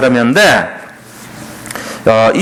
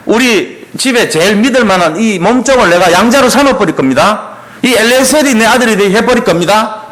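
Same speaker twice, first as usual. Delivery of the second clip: higher-pitched mock protest to God; arguing accusingly; 5 semitones higher than usual. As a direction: press the complaint, pitched up. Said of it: "아브라함이 하나님께 막 따져요". (높은 톤으로 따지듯이)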